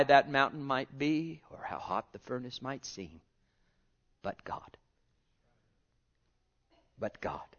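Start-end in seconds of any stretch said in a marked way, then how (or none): 4.2-4.8 "But God" whispered, no voice. Acted. Preacher hushing church on "But God", whispered. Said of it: "always remember that wonderful statement". 7.0-7.5 "But God" dropped much lower and softer; low, quiet. Acted. Preacher repeating "But God" to church, low and soft. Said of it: "always remember that wonderful statement".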